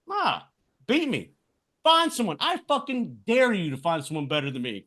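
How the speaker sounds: heated promo-style rant, no holding back; defiant rant. Pretend. Podcast host cutting a wrestling promo, defiant and heated. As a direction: spit defiance at doubters.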